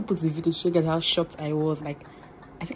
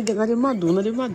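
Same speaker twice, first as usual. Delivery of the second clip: imitating Bella; 3 semitones higher than usual. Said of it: "That's her favorite word".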